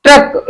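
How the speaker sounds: "ट्रक" with the र held a little longer; lengthened र. Shown as a demonstration. Teacher shows students the doubled padena, lengthened र. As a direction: linger slightly on the र in "ट्रक". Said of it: "देर तक बोल रहे हैं हम".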